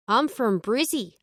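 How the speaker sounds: a hint of an Australian accent; light attempt at Aussie. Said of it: "trying out my best Australian accent".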